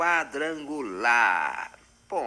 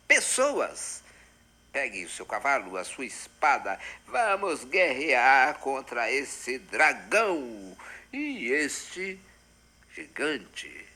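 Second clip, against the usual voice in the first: knight's battle call; slower than usual. Acted. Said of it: "eu tô encarnado em Dom Quixote".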